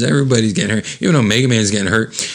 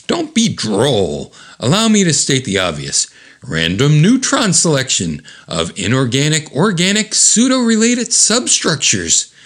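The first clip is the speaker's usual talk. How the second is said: mock know-it-all, climbing higher through the jargon; lightly voiced brainy lecturer; 5 semitones higher than usual. Diane states the obvious to Eve, acted know-it-all. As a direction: reel off jargon as a clever explainer, building in pitch. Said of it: "of course, Diane's very smart".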